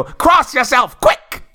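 high, loud Cockney cry; Cockney shout. Retold or imitated. Cockney woman pops from bushes, loud Cockney shout. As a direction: leap out and yell it in Cockney. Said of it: "pop out of the bushes and go".

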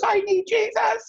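very high mock-sobbing wail; imitated bawling. Retelling the friend breaking down, high mock bawling. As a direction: bawl it out in a squeaky high voice. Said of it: "the girl just starts bawling".

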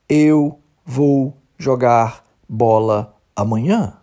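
every word slow and apart, robotic; slow and separated. Shown as a demonstration. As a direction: say each word apart, slowly and mechanically. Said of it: "falar o tempo todo contigo pausadamente". (fala pausada e mecânica, palavra por palavra)

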